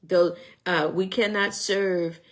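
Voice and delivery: a light mock Parisian accent on a waiter's apology; hammed-up Parisian accent, barely there. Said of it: "In my Parisian accent".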